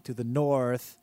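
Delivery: put-on accented king character; broken-English royal voice; foreign king voice.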